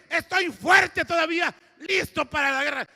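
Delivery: proclamar con fuerza; grito de anciano que aún pelea; viejo guerrero, fuerte. Retold or imitated. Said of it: "este hombre de ochenta y cinco años dice". (grito firme de un anciano dispuesto a la guerra)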